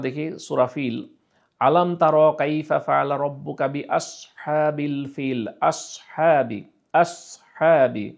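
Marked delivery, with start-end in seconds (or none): 1.6-8.1 আসহাবি drawn out with a thick, heavy s; heavy sad. Shown as a demonstration. Teacher reciting Surah Fil, slowly. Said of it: "এখানে সদ উচ্চারণ হচ্ছে আসহাবি".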